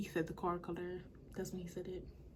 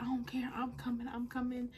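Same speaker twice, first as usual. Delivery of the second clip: higher-pitched imitation of his stubborn texts; mock insistence; 5 semitones higher than usual. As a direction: parrot him, pushy and dismissive.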